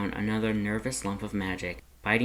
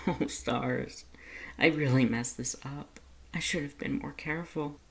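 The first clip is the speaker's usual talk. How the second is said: rueful laugh; 5 semitones higher than usual. A narrator's reading. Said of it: "starting to laugh".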